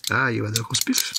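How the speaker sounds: lightly voiced French mockery; mock French accent. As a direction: tease the English in a light put-on French accent. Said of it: "That's what they call us".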